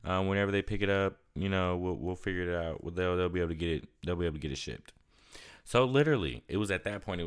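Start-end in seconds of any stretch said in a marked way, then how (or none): 0.0-4.9 much higher, breezy shipping agent; a lightly voiced, easygoing company rep; the shipping agent's easy reassurance, higher-voiced; quoting the shipper. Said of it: "He was like".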